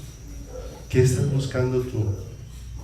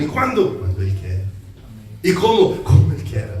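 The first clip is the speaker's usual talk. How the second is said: high questioning lilt; 6 semitones higher than usual. Acted. Rhetorical Q and A.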